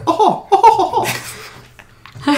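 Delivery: high, snooty upper-class laugh; posh laugh. Retold or imitated. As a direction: laugh like a stuck-up socialite. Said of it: "I'm sure she laughs like one too".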